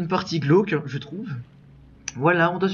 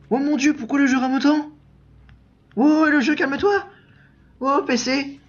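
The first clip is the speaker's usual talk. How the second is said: exasperated at the lag; 8 semitones higher than usual. Real, not acted. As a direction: scold the lagging game, real exasperation. Raging at the lagging game. (agacé contre le jeu qui rame)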